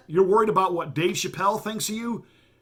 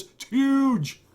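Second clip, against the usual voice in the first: emphatic; 8 semitones higher than usual. Real, not acted. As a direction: sell how big this is. Hammering home the New York point.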